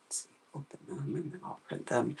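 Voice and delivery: fast whisper under the breath; whispered muttering. Real, not acted. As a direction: mutter it to yourself. Muttering to self at computer.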